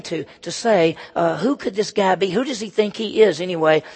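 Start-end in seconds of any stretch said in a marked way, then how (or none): 1.4-3.8 mildly indignant questioning; a touch of scornful disbelief; upset grumbling. Acted. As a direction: voice a put-out crowd, lightly acted. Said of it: "They're pretty upset".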